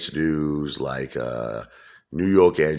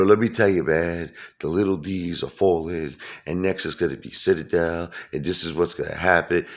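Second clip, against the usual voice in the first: Lou, mock confidence; 2 semitones higher than usual. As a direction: lightly imitate a cocksure pundit. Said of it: "He talks with such conviction, and, like, such confidence".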